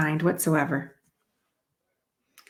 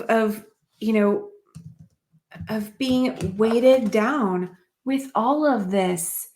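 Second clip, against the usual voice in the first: weighted-down sigh; 3 semitones higher than usual. Retold or imitated. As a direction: drag the words like they weigh a ton. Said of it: "This is a person that is, like, so weighted down".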